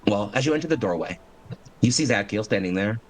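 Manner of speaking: measured, dramatic scene setting; game master narration. Acted.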